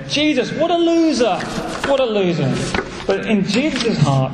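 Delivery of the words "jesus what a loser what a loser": mock shout. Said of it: "the shame was shouting to him".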